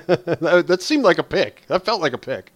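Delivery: laughing, high and loud teasing. Real, not acted. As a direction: tease him with a laugh.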